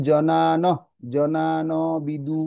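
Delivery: জনান with a long, stretched second vowel; drawn-out demonstration. Shown as a demonstration. Teacher modelling জনান বিদু for learners, slow and drawn out. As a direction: stretch জনান slowly, then add বিদু. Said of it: "এটা আপনারা কি করবেন?".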